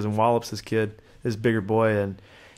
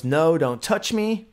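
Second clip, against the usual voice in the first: slow, higher and firm, like a warning; loud stern voice; 6 semitones higher, slower than usual. Retold or imitated. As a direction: set a boundary with a slow, stern no. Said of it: "your very loud, stern voice".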